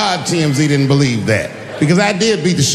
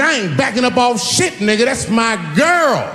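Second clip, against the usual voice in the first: higher, laughing mock tough-guy shout; 7 semitones higher than usual. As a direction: puff up and shout it like a bouncer. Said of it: "She said".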